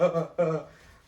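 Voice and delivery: high, loud mock-panic panting; imitated panicky gasps. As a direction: mimic her wordless panicking. Imitates friend's panicked noises.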